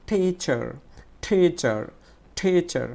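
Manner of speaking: টিচার with a strong "ti", falling away after; stressed first syllable. Shown as a demonstration. Teacher drilling students, forceful "ti" in টিচার. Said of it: "টিটা আমরা একটু জোরে উচ্চারণ করবো".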